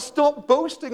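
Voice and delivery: loud, high rebuke; stern command. Acted. Paul voiced scolding the Gentiles.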